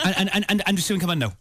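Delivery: mock-Irish stutter tumbling into a quick rush; stuttering Irish accent. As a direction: imitate an Irish dad stuttering his call. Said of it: "That's a Southern Irish accent with a stutter".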